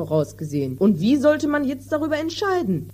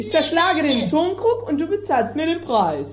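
a higher, agitated stop-start voice of a furious farmer; irate landowner; 5 semitones higher than usual. Acted. Landowner fuming at the mended jar, agitated and higher. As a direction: sputter with outrage over the broken jar. Don Lollo orders the tinker.

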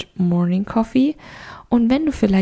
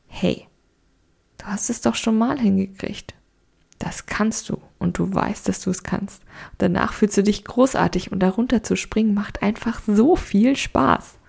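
encouraging inner voice. Retold or imitated. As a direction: coax yourself gently to jump. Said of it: "Und die andere Stimme sagt".

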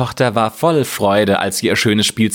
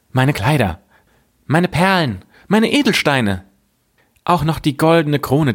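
higher-pitched princess voice, item by item; 5 semitones higher than usual. Acted. Princess offering her treasures to the frog, higher princess voice. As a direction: list each treasure as a separate offer, pitched up.

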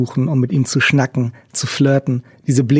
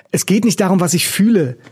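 higher-pitched, mildly raised outburst; called out; 5 semitones higher than usual. Acted. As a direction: cry out in protest, not full volume. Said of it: "rief sie". (leicht erhoben, höher gerufen)

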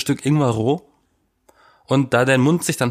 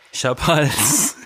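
slow, hammed-up sick voice; playing up a sore throat for sympathy; mock sick whimper; 3 semitones higher, slower than usual. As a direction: moan it like a pitiful invalid. Mock complaining about sore throat.

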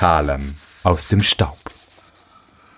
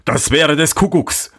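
higher-pitched cry of disbelief; astonished exclamation; 6 semitones higher than usual. A narrator's reading. Miller hears of hidden wine, exclaiming in amazement. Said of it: "rief der Müller".

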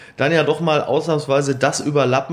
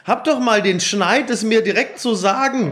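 mock hurt; 4 semitones higher than usual. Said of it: "die sensible Seite von Micky".

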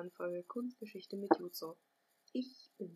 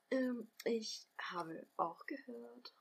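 secretive whisper; 4 semitones higher, much slower than usual. Acted. Sharing a secret rumour.

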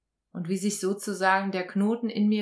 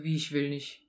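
indignant self; 5 semitones lower than usual. Retold or imitated. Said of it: "Und ich so".

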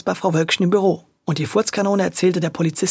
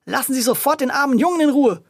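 stern order; 6 semitones higher than usual. A narrator's reading. Policewoman scolding the grocer.

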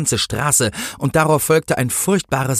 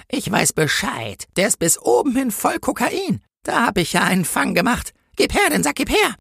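high-pitched voice rising to urgent demands; triumphant, demanding policewoman; 13 semitones higher than usual. Acted. Policewoman demands the sack from the angel, high and insistent.

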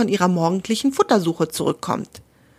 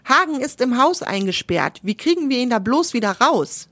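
excited woodpecker; 4 semitones higher than usual. Acted. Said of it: "ruft der Buntspecht aufgeregt".

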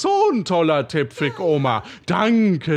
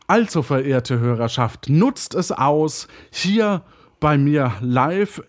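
radio host voice; 2 semitones lower than usual. Acted. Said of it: "drei, zwei, eins".

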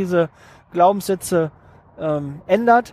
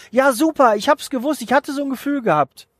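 higher, bright burst of joy at success; excited delight; 5 semitones higher than usual. Pretend. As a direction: lift the voice as if you just heard yes. Imagined success, cheering.

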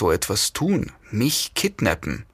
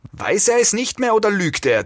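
very high-pitched woman's voice; indignant, high female squeal of a question; shrill female captor; 12 semitones higher than usual. A narrator's reading. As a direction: voice her outrage way up high. Woman shrieks at captive's answer.

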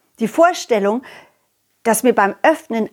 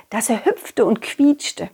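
slow whisper; slower than usual. A narrator's reading. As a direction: whisper it slowly. Narrating excited ball.

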